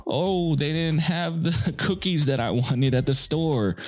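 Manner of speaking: put-on high, whiny teen girl complaining, with a laugh; mock a daughter's dramatic complaint. Dad imitating his upset daughter, high and whiny. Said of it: "sometimes they're".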